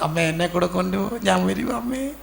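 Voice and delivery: lightly acted tearful plea, rising at the end; mock child's crying. Child to mother on being left at school, mock tearful plea. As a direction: imitate a child whining to come along. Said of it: "കരഞ്ഞുകൊണ്ട്".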